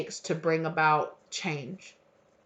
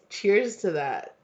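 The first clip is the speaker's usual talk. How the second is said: "Cheers to that" drawn out slowly; slow savouring "Cheers to that"; slow toast; 2 semitones higher, slower than usual. Shown as a demonstration.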